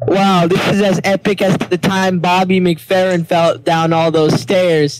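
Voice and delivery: slowed right down, word by word. Shown as a demonstration. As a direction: say it slowly and carefully. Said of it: "Slow down".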